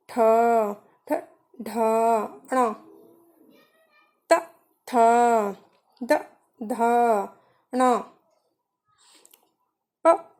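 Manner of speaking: क, ग clipped short, ख, घ drawn out with breath; alternating short and long consonants. Shown as a demonstration. Teacher demonstrating Hindi consonant timing to students, short क, long breathy ख. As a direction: recite letters singly, quick क then long airy ख. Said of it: "देखिए, हम इसका उच्चारण कैसे करेंगे".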